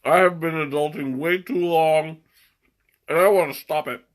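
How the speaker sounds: talking through a mouthful; chewing while talking; mouth full. Real, not acted. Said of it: "talking with my mouth full again".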